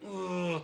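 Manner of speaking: imitated groan of bottled-up misery; mock strained groan; retold groan. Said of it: "I was like".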